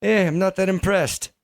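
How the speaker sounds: high, put-on Australian accent; Australian lady. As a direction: mimic an Australian lady's accent. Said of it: "I heard an Australian lady say that".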